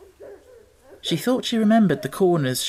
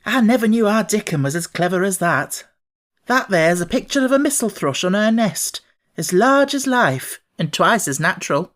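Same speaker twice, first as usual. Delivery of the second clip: higher, louder Yorkshire maid voice; proud Martha; 5 semitones higher, 3 dB louder than usual. A narrator's reading. Martha proudly praising Dickon's picture to Mary. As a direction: brag about Dickon like a proud sister. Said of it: "said Martha with great pride".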